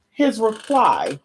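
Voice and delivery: measured preacher read-aloud; scripture reading. Acted. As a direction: read it like a sermon text. Reads scripture in preacher style.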